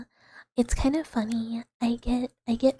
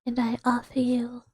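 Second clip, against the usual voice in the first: lightly put-on, wobbly British accent; attempted British accent. Shown as a demonstration. Shopkeeper mouse offering cursed wares, attempted British accent. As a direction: have a go at a British accent and miss. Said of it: "I don't know what accent that was".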